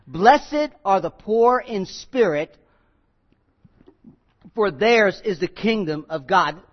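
slow, weighty reading of the verse; solemn scripture quote. Shown as a demonstration. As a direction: let each word land slowly. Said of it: "Look, look what it says".

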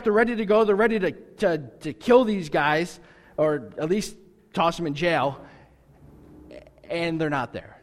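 normal talking voice

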